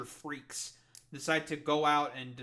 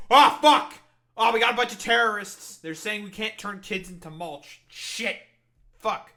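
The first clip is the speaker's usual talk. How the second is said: high, loud hammed-up panicked official; mock panic; 6 semitones higher, 12 dB louder than usual. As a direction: ham up the alarm of a startled bureaucrat. Mocks the government's panicked reaction.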